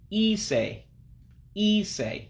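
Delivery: ise as a high drawn-out ee, then say; high-pitched I. Shown as a demonstration. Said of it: "real high-pitched".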